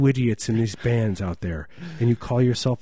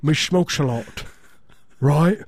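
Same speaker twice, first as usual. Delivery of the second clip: put-on French accent; 3 semitones higher than usual. Frenchman calling a little boy over, hammed-up French accent. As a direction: play a cartoonish French smoker in a thick accent. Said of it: "that's a great French accent".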